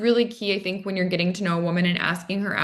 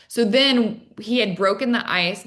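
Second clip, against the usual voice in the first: normal talking voice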